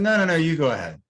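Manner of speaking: high-pitched polite protest, re-enacted; insistent deferring. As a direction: wave off the offer and hand back the turn. Acts out own polite refusal.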